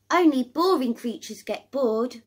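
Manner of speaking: high, small creature voice; squeaky little critter saying no. A narrator's reading. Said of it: "replies the little creature".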